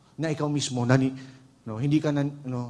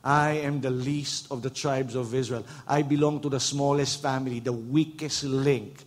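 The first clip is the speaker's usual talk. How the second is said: timid apology; slower than usual. Pretend. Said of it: "You know what he was saying?".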